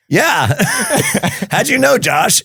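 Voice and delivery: high, giggly disbelief while laughing; half-laughing, amazed he was recognized. Retold or imitated. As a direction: laugh through the words, caught off guard. Surprised by old friend on phone.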